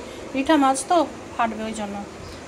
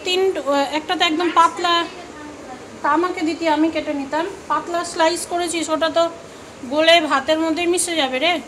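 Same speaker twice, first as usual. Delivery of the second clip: higher-pitched, exasperated telling-off; real mild scolding; 4 semitones higher than usual. Real, not acted. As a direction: scold the daughter in a raised pitch. Scolds daughter over thin potato slices. (চড়া সুরে হালকা বকুনি)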